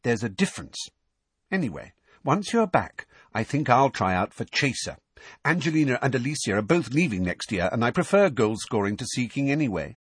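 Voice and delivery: lightly voiced, matter-of-fact young player; Ginny. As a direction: talk it through brightly, pitched a little up.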